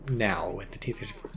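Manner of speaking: talking through hiccups; hiccuping between words. Real, not acted. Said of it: "I'm hiccuping, sorry".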